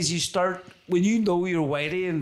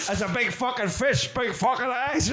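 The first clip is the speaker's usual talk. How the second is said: movie quote impression; 7 semitones higher than usual. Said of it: "he goes".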